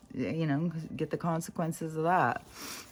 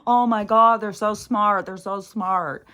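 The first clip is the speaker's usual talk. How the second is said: gasping, much higher and louder mock admiration; mock awe; 5 semitones higher, 10 dB louder than usual. Mocking people who gather around fake talkers, gushing. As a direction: gush like a starstruck fan. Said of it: "I'm like, gasps".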